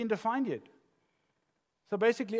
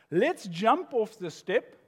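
put-on excited kid suggestion; 4 semitones higher, 5 dB louder, slower than usual. Voicing grandchild's game again.

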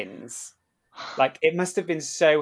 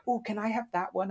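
put-on kid asking; 10 semitones higher than usual. Child picking a pin from the lanyard, eager asking. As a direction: pipe up like a little kid.

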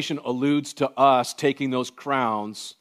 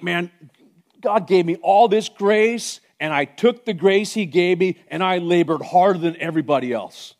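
voicing Paul; 5 semitones higher, 4 dB louder than usual. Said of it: "Paul's like".

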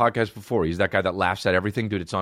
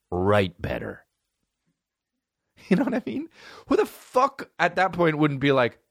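normal talking voice

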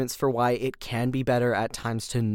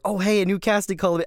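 mock-excited, pitched up; hopeful excitement; 6 semitones higher than usual. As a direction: perk up as if spotting a fresh opportunity. Acts out spotting a new casting.

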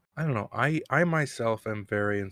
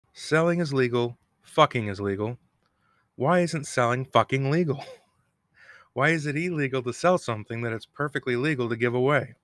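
George Carlin; 3 semitones higher, 3 dB louder than usual. Retold or imitated. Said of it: "my George Carlin quote of the day".

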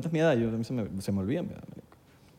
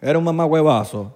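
put-on Dominican accent. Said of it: "los insultos dominicanos".

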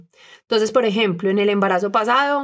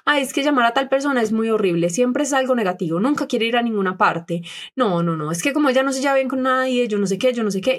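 mock whiny complaining friends; 3 semitones higher than usual. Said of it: "decidió hacer eso la mayoría".

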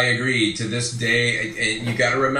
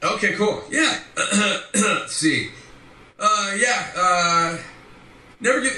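higher-pitched, stammering muddle of a catchphrase; Mirage; 4 semitones higher than usual. Acted. Fan asked for a catchphrase, stammering it in character. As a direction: fumble the line in a high, flustered character voice. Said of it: "as Mirage, can you say".

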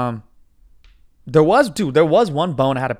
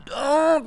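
high mock sob; imitated tearful moan; 12 semitones higher than usual. Retelling his tears at the aisle, mock tearful moan. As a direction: mimic welling up with a high moan. Imitating himself crying at wedding.

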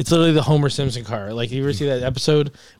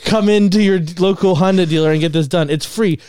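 mock dealer voice; 5 semitones higher, 4 dB louder than usual. Mocking Honda dealer letter.

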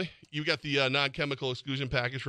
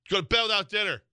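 higher, louder mock-parent threat; fear of God voice; 7 semitones higher, 5 dB louder than usual. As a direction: hand down a pretend punishment sternly. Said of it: "Fear of God voice, man".

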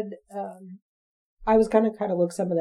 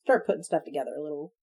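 words stretched by a yawn; 4 semitones lower, 8 dB quieter than usual. Real, not acted. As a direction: talk through a yawn. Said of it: "I'm yawning over here".

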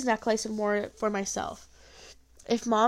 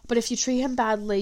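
voiceless ominous whisper; old woman warning the mother, whispered; 4 dB louder than usual. Acted. Granny's dark warning.

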